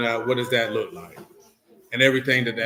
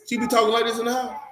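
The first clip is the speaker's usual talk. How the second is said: mock soft-spoken voice; 9 semitones higher than usual. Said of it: "you don't talk this soft spoken".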